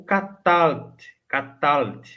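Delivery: Catalt in two beats, no vowel between L and T; short Catalt. Shown as a demonstration. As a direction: say Catalt slowly, L run straight into the T. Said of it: "eu pronuncio sem enfatizar o L".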